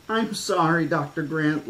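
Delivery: put-on high, pleading child's wail; wailing girl. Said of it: "Lex wailed".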